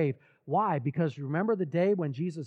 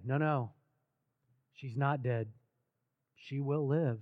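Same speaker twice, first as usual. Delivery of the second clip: low, softer, measured answer; calm reassurance; 3 semitones lower, 4 dB quieter than usual. Retold or imitated. Jesus answers news the daughter is dead, calm and low. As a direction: quote it quietly, with pauses between phrases.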